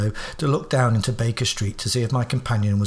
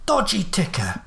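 much higher Cockney voice, Smith said Shmif; Cockney alias; 7 semitones higher than usual. Acted. Holmes giving a fake name to the guard, Cockney. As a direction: give the name like a London working man.

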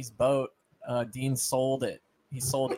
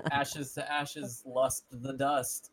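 solemn funeral voice; 4 dB quieter, much slower than usual. Pretend. Mock funeral for Steve.

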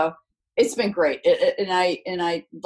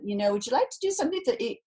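quick, higher imitation English accent; 4 semitones higher, much faster than usual. Retelling her agent's phone call, imitated English accent. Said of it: "with this English accent".

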